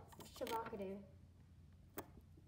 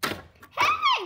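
high, loud, drawn-out hey; hailing shout; 13 dB louder than usual. Acted. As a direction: hail a passer-by at full volume. Hailing people for free avocado.

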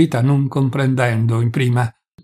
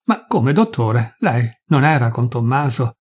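a hint of a trembling wife; a touch of trembling. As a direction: ask haltingly, barely holding together. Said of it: "tutta tremante".

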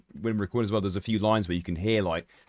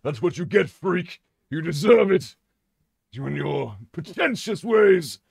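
higher, louder scornful taunt; sneering character; 7 semitones higher, 5 dB louder than usual. Pretend. Character taunting the freak, high and scornful. Voicing character insulting the psyker.

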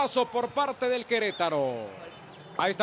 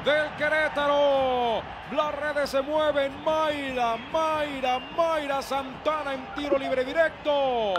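higher, slowed, emphatic call; excited goal call; 4 semitones higher, slower than usual. Real, not acted. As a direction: savour the goal. (narración de gol emocionada)

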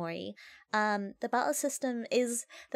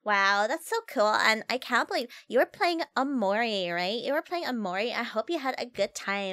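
put-on Valley Girl accent. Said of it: "your points for the Valley Girl accent".

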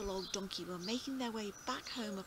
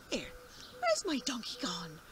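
whispering. Acted. Farmer puzzled, hushed.

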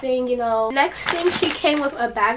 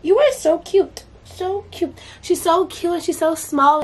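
gushing over a tiny puppy, voice pitched up; cooing at puppy; 5 semitones higher, slower than usual. Real, not acted. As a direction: coo over the new puppy, delighted. Cooing at her new puppy.

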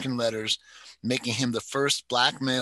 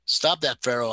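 whined; 3 dB louder than usual. Acted. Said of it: "Ida Bell Turner whined at the dog".

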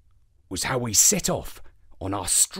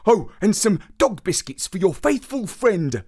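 a lightly voiced dog asking; dog woof; 9 semitones higher, 5 dB louder than usual. Dog narrator adding his own request, a mild woofy voice. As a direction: say it as if a woof, only a little higher. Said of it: "said I in a dog woof".

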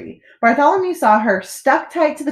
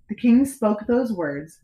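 plain reading voice

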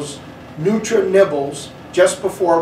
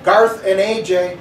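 calling down the bus, a little higher on Garth; 4 semitones higher than usual. Acted. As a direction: call the names toward the back of the bus. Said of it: "called to the back of the bus".

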